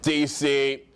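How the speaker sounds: lightly mocked high value tonality; every phrase a declaration, like an assertive American; brash American traveller. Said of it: "saying everything in high value tonality".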